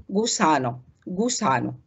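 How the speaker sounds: "جوسانو" with hard g, "gu-sano"; hard g demo. Shown as a demonstration. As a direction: model "جوسانو" twice, g as in goose. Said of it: "زي ما بننطق الجيم".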